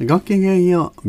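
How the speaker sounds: high, elegant ladylike greeting; haughty rich girl japanese. Acted. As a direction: sing out a refined lady's hello. Radio host's elegant opening greeting.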